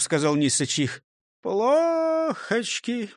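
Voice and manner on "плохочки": slow, higher babbling word; a hint of a dim crook babbling; babbled. A narrator's reading. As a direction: stretch the word out timidly. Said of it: "пролепетал Густав Гейер".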